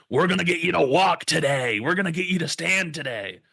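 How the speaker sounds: high, loud pushy nurse; hammed-up forceful nurse order; crazy nurse. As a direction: imitate an overzealous nurse urging a patient. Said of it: "some crazy nurse grabs me".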